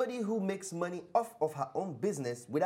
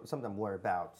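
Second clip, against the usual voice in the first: put-on London accent; 6 semitones lower, faster than usual. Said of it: "I'm using my London accent".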